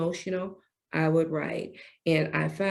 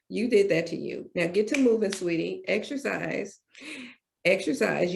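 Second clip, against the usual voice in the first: lightly voiced firm parent, quicker at times; voicing God; faster than usual. God ordering the speaker to exercise and write, firm parent. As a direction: coach her like a firm mother. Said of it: "He said".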